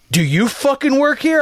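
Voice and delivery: imitating a guy mimicking you; mocking echo. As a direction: throw the words back in a mocking tone. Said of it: "why are you repeating everything".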